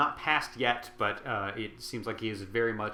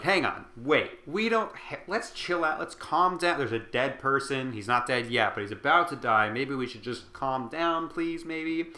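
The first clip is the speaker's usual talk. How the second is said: nervous peacemaker, pitched up; flustered pleading; 2 semitones higher than usual. Retold or imitated. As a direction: hurry to calm the room down, voice up. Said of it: "he's like".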